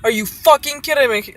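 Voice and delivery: indignant retold outburst; retold losing it. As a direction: retell snapping at someone in disbelief. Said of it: "I lost it".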